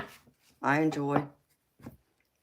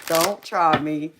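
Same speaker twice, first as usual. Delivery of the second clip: slow, louder, half-joking tough warning; playful mock-gangster warning; 2 semitones higher, 6 dB louder, slower than usual. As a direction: lean in slow like a little gangster daring them. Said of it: "I'm a little gangster when I have to be".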